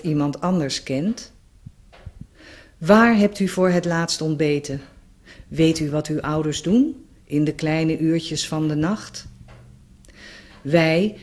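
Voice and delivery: measured poem recitation with deliberate pauses; gedicht voordragen. Acted. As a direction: read it as a formal letter in verse, line by line. Reads her poem aloud. (gedragen gedicht voorlezen, met pauzes)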